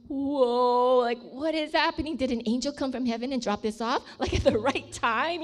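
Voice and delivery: loud, excited whoa with a laugh; loud amazed whoa, laughing at the end; amazed exclamation. Retold or imitated. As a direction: gush in disbelief at the gift. Amazed at pearl necklace.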